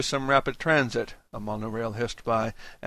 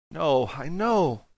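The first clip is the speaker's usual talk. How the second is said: pathetic; 4 semitones higher, slower than usual. Acted. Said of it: "Hated how pathetic I sounded".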